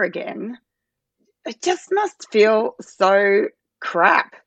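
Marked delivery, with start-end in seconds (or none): 1.4-4.3 real upset, close to tears; apologising while getting choked up; emotional. Real, not acted. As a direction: falter as emotion wells up. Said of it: "it makes me emotional".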